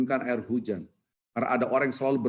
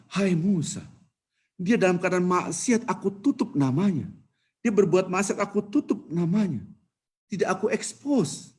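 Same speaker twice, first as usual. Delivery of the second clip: voice of God; 8 semitones higher, 4 dB louder than usual. Acted. God answers Musa.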